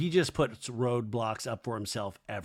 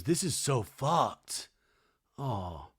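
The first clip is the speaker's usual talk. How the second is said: imitating Schwartz; 5 dB quieter, much slower than usual. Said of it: "He goes".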